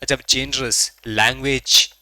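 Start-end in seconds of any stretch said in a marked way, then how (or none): 0.3-1.0 जेनरस with a j from further back, not a z; inner j sound. Shown as a demonstration. Teacher showing students the j in जेनरस, inner j sound. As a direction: say जेनरस with the j made inside the mouth. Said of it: "ये जीम अंदर से निकल रहा है".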